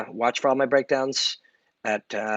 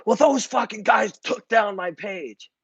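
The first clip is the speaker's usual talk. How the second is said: higher, slow, put-on aggrieved complaint; mock indignant whine; 9 semitones higher than usual. Complaining that his page was taken down, in a mock sulky voice. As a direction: sulk like someone blaming others. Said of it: "and then I'd be like".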